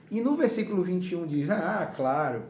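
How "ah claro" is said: mildly sarcastic agreement; a touch of mock-agreeing irony; ironic. Preacher voicing God's reply to Job, mildly ironic. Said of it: "a entonação que eu vou usar ... alguém irônico diria".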